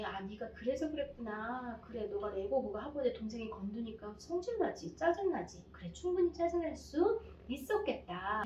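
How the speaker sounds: put-on gentle mom naming the child's anger; empathizing mom. Shown as a demonstration. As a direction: accept the child's feelings tenderly. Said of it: "이 아이가 한 행동은 나쁜 행동이지만".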